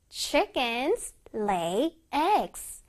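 one word at a time with pauses; slow model reading. Shown as a demonstration. Teacher reading an example for children, word by word. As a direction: space out every word clearly.

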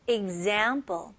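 Example said slowly, weight on -zam-; stress on za. Shown as a demonstration. Teacher models Example for students, stress on za. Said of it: "Za에 들어가죠?".

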